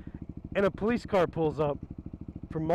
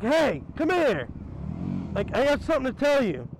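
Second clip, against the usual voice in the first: calling out; 6 semitones higher than usual. Retold or imitated. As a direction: draw it out to get their attention. Friend calls out to cops.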